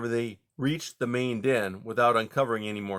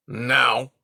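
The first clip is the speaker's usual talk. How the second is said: firm louder command; 6 dB louder than usual. Acted. Porcupine orders the foxes, commanding. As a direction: give the order. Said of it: "Eric commanded".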